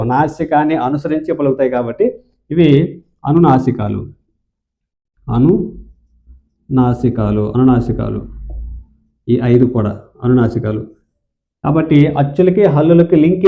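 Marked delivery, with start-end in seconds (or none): 5.3-7.5 syllable by syllable, slow and lower; slow drawn-out term. Shown as a demonstration. Teacher drills the term for students, slowly. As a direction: stretch out అనునాసికాలు slowly for students.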